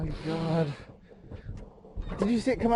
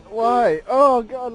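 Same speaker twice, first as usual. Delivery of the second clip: disgusted cry; 5 semitones higher, 5 dB louder, much slower than usual. Real, not acted. Disgusted reaction.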